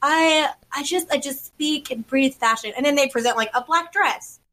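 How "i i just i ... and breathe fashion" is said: pretentious designer voice. Retold or imitated. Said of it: "the designers are like".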